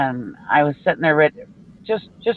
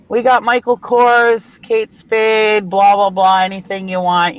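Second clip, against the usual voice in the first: mock yell; 3 semitones higher, 3 dB louder, slower than usual. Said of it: "she's just yelling through the store".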